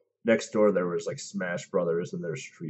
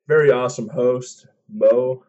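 hyped introduction; 5 semitones higher, 10 dB louder than usual. Acted. Hyping up the cohost.

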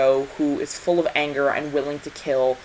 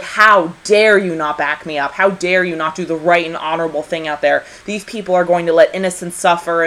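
raised voice, righteous indignation; retold angry yelling; 2 semitones higher, 5 dB louder than usual. Diana getting in Steve's face, mock angry yelling. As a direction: imitate a scolding, loud on the opening. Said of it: "but she yells at him".

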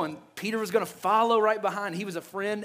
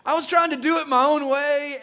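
higher and louder, laughing through it; laughing confession; 6 semitones higher, 6 dB louder than usual. Retold or imitated. Peter, imagined, confesses to Jesus while laughing. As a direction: laugh at his own stubbornness.

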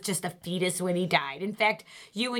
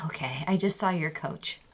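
hushed secret whisper; 3 semitones lower than usual. Acted. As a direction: whisper it so no one hears. Secret talk with son.

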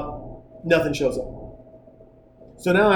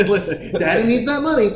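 greedy bellhop; 3 semitones higher than usual. Retold or imitated.

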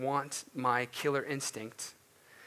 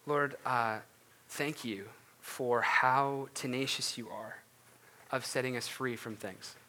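closing prayer. Real, not acted. Pastor leads a closing prayer.

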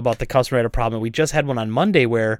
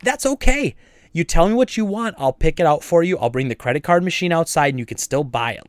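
high sweet 'that's okay', pitched way up; accommodating shopkeeper; 3 semitones higher than usual. Retold or imitated. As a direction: bend over backwards for the customer. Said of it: "I'd say".

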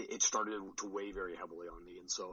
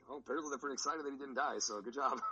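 lightly imitated meet announcer, higher and quick; Jennifer Gamel; 5 semitones higher than usual. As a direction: toss it off like a quick quip on the mic. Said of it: "Jennifer Gamel's on the mic. She's like".

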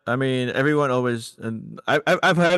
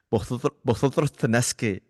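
put-on Spanish accent with lisp; 2 semitones higher than usual. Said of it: "added, like, a little lisp 'cause we have some Spanish people from Spain".

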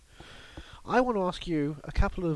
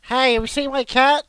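loud, higher mock Long Goodbye detective hunting his cat; Elliot Gould voice; 5 semitones higher, 7 dB louder than usual. Asked to do the Long Goodbye Elliot Gould, calling for his cat. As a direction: call out for the lost cat, lightly voiced. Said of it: "now let's hear your long goodbye era, Elliot Gould".

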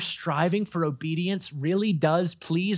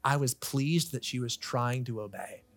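gentle approving parent. Retold or imitated.

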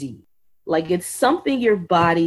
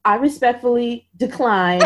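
firm decline; 4 semitones higher than usual. Retold or imitated. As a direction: read it out bravely, heart pounding. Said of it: "holding my phone and was like".

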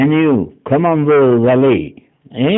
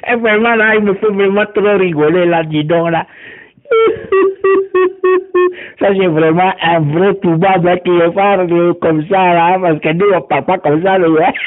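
personnage moqueur; 6 semitones higher than usual. Acted. Voix d'une moqueuse qui rit.

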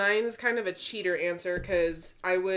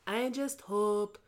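put-on Puerto Rican grandma accent; slower than usual. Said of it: "conversation between my grandmother and I".

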